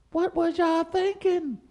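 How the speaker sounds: high, slow incredulous question; exasperated disbelief. Acted. Host scolding white women, slow high disbelief. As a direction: stretch it out in disbelief.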